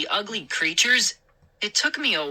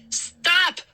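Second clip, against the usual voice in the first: shriek; 13 semitones higher than usual. A narrator's reading. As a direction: shriek at the grabbing gnomes. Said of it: "I shrieked".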